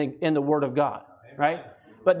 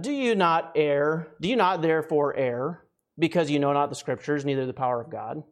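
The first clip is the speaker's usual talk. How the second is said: scripture reading; 3 semitones lower than usual. Acted. Reads scripture aloud.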